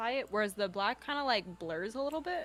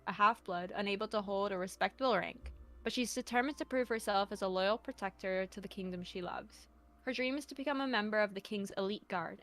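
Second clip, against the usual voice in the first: story narration; 3 dB quieter than usual. Acted. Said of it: "your best narrator voice".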